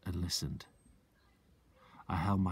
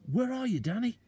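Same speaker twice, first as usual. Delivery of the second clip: father calling. Acted. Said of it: "my father called out".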